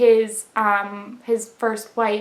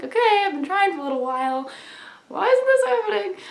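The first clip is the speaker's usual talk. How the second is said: mock exasperated; 9 semitones higher than usual. Mock frustrated self-quote.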